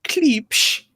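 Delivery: Klipsch as one syllable, ending in a long "sh"; demonstrated pronunciation. Shown as a demonstration. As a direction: say "Klipsch" high, drawing out the final hush. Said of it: "that's how I've always pronounced it".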